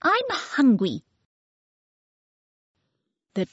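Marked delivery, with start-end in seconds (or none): 0.0-1.0 put-on very high, demanding little-girl voice; baby voice. Baby demands yummy food from the children, very high and bossy. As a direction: play a bossy toddler ordering food. Baby's voice.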